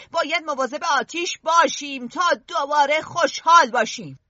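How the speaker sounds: loud rising plea; rally them with a shout; rousing shout. Acted. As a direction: chief rallying the boys, shouting. Ralph's rousing ending.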